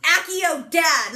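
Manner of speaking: slow, loud wizard incantation, hammed up; a playful summoning charm, called out slowly and loudly; mock spell cast. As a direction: cast it like a Harry Potter spell. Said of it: "I'm learning Harry Potter things".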